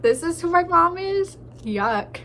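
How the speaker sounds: ventriloquize the cat sneering; lightly voiced disgusted cat. Cat judging its owner, lightly voiced, mock disgust. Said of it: "She's like".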